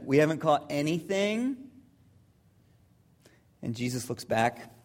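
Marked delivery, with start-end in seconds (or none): 0.0-1.6 doubtful Simon. Acted. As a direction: repeat it as a doubtful question. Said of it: "Simon's like".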